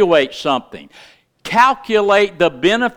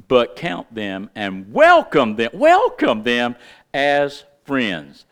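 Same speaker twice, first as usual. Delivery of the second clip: slower, stressed reread of the verse; read slower. Shown as a demonstration. Preacher rereading the verse slower for his congregation. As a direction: lean on each phrase the second time. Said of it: "I'll read it slower for some of you".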